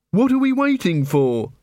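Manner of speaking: questioning recruit. Acted. Angua asks impatiently in alley.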